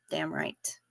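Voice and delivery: breathy aside whisper; a quick whispered aside. Real, not acted. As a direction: drop to a whisper to agree. Whispered agreement to chat.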